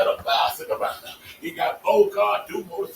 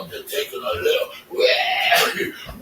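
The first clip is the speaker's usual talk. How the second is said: mock panicked driver; much slower than usual. Acted getaway scene, cry shout.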